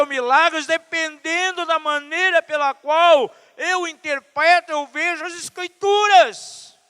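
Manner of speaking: high, driving sermon delivery; full-force preaching. Real, not acted. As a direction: announce it to the whole church at full volume.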